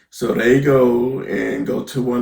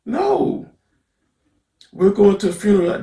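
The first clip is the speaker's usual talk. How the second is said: incredulous protest; 7 semitones higher than usual. Retold or imitated. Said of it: "And so I'm like".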